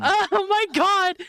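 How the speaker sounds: high, loud, drawn-out exclamation; dismayed outcry. Real, not acted. Player reacting to a crazy fail, dismayed outcry. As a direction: wail it slowly, high and loud.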